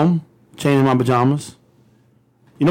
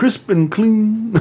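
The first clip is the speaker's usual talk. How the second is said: chipper 1950s ad; 7 semitones higher, much slower than usual. Pretend. Mock soap ad slogan.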